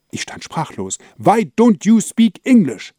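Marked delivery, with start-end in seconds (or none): 1.2-2.9 high, slow, shrieked Why don't you speak English; angry cry. Acted. Woman's angry question recalled.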